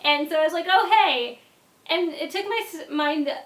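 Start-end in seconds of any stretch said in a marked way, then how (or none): 0.7-1.4 a caught-off-guard, louder oh hey; startled greeting. Retold or imitated. Greeting friends who turned up unannounced, startled. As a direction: blurt it out, thrown by who's at the door. Opening the door to surprise guests.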